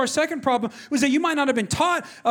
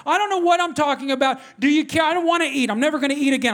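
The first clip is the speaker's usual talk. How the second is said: petulant, raised-pitch protest; retold huffy outburst; mad refusal; 4 semitones higher than usual. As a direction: refuse like a sulking child. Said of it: "So I got mad at her".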